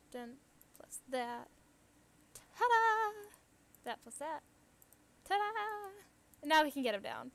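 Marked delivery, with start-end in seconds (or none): 2.3-3.3 high, loud showman's ta-da; triumphant ta-da. Real, not acted. Presenting a crafted item. 5.3-5.9 high little showman's ta-da; high bright ta-da; triumphant ta-da. Real, not acted. Presenting a crafted item.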